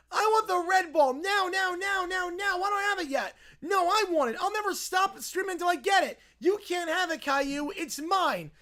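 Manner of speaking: high, loud tantrum shriek; screaming bratty kid. Acted. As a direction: scream it like a spoiled child who won't share. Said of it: "they just keep whining".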